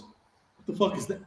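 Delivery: sergeant's disbelieving outburst, rising high and loud; incredulous drill sergeant yelling across the latrine; shocked sergeant. Retold or imitated. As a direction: bark it at the recruit like you can't believe your eyes. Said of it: "And Sergeant Santiago goes".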